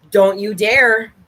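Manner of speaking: drawn-out don't you dare; mock-stern warning to a pet; slow stern warning. Real, not acted. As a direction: warn the dog slowly and firmly. Warning the dog again, slower.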